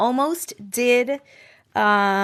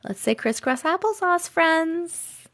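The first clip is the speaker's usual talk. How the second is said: lightly sung-out kindergarten teacher, a little higher; 5 semitones higher, 4 dB quieter, slower than usual. Shown as a demonstration. Former teacher showing chat how she cued her class, sing-song. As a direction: coax a class of little kids gently. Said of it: "'Cause I was a teacher".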